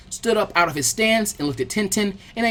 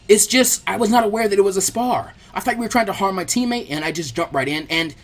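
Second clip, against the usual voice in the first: frantic; 3 semitones higher than usual. Acted. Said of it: "said frantically".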